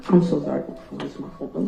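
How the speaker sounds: crying, blaming herself; sobbing apology. Real, not acted. Breaks down mid-statement.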